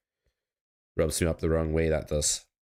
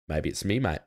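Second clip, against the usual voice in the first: put-on half-hearted Aussie accent, teasing; a lightly put-on Aussie accent; bad Aussie accent. Poker streamer jokes with chat in a weak Aussie accent. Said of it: "not even that good an Aussie accent".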